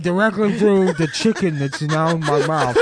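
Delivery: high, loud puffed-cheek voice; squeaky falsetto mockery. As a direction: keep the fat-cheek caricature going. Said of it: "That's not what I sound like".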